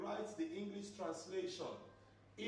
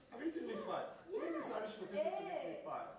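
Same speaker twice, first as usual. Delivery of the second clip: excited quizzing; 8 semitones higher, faster than usual. Real, not acted. Teacher excitedly quizzes the class.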